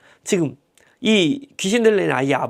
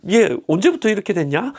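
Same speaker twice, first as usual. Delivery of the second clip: nonchalant. Retold or imitated. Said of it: "태연하게, 너무 여유 있게".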